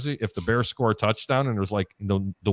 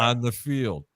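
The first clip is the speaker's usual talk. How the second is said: boring announcer; slower than usual. Retold or imitated. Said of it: "the announcer goes".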